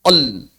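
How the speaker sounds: el said like the Latin letter L; a flat, wrong el. Shown as a demonstration. Teacher mocks the wrong reading of lam. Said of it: "Jangan dibaca".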